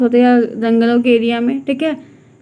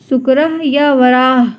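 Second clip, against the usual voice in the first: slow, clear naming; slower than usual. Shown as a demonstration. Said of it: "ध्यान रखिएगा".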